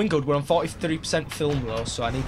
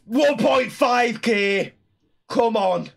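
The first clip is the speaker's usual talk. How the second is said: slow, raised triumphant shout; excited cheer; 7 semitones higher, 4 dB louder, much slower than usual. Real, not acted. Player celebrating the view count, excited cheer. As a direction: draw out the number in a high, loud cheer.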